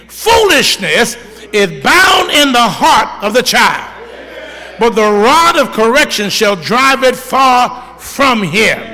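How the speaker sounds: slow, loud preached scripture; preaching scripture. Acted. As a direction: proclaim each word slowly to the congregation.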